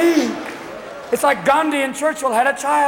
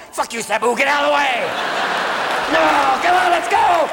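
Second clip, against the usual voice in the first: hammed-up wife shouting orders; mock yell; 3 semitones higher than usual. Wife yelling at attendant.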